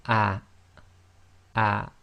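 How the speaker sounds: "ah" cut off by a glottal stop; Arabic hamza with sukun. Shown as a demonstration. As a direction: block the bottom of the throat at the end of "ah". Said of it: "slight blocking of the bottom".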